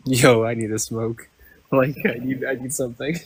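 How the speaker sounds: glitchy robotic call audio; choppy bad connection voice. Real, not acted. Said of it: "You sound like a robot".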